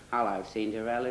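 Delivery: lightly put-on Australian accent; mock Australian twang. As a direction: play the fairy godfather with an Australian twang. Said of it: "in his sort of Australian twang".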